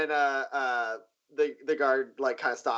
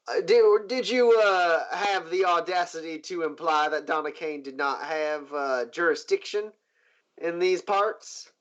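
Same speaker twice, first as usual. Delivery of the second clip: starts higher and louder, then settles; lightly indignant boss; 3 semitones higher, 3 dB louder than usual. Acted. Boss questioning guard about the marshal's jurisdiction, indignant.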